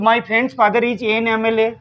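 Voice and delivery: each English word spaced out very slowly; deliberate classroom dictation pace. Shown as a demonstration. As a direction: read it out slowly for students to write down. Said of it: "teacher dictating answer sentence".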